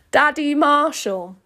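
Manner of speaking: loud, high, drawn-out declaration. Acted. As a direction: announce it slowly and loudly. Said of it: "I have to say this out loud".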